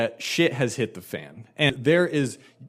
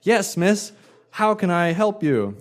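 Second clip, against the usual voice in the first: eager waiter; 6 semitones higher than usual. Retold or imitated. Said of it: "I'm like".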